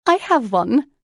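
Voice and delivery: high, loud, rising "I have one"; sudden realization. A narrator's reading. Lucy snaps her fingers, remembering, in excited realization. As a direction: announce "I have one" as a sudden bright idea.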